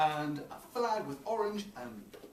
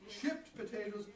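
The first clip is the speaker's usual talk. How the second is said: building comic list; 7 semitones higher, 5 dB louder than usual. Acted.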